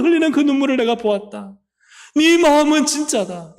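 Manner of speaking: lightly voiced Lord, building from calm acknowledgment to fervent affirmation. The Lord answering weeping believers in heaven, consoling then fervently affirming. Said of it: "막 엉엉 울고 그러면 주님이".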